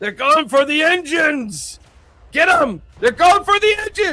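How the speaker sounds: very high, loud yelling. Voicing a pilot under a strafing run attack: pilot yelling. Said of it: "You hear the pilot yelling".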